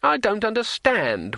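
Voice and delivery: high, drawn-out wail; plaintive high-pitched complaint. A narrator's reading. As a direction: wail it slowly in bewilderment. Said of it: "wailed Two Flower".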